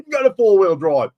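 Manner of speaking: high, loud laughing words. Real, not acted. Livestreamer amused by his bumpy-ride story, laughing.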